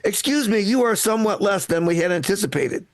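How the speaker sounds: lightly voiced polite heckler; prim, overly polite complaint; Mormon heckler. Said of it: "my impression of a Mormon heckler".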